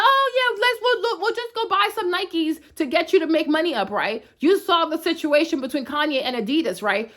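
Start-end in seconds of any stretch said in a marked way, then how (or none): 0.0-3.9 a high, hammed-up eager voice; higher, gushing mock enthusiasm. Mocking customers rushing to rescue Nike, high and eager.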